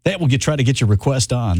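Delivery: lightly put-on radio DJ voice; a hint of smooth-talking music-radio DJ. Host playfully takes listeners' song requests, in FM DJ voice. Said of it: "my best F M D J voice".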